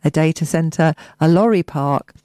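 measured local radio news read; news bulletin delivery; press release read. Acted. Resumes reading press release.

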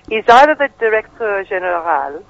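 directeur général in a mock French accent; hammy Inspector Clouseau French. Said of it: "reading it out in a Clouseau accent".

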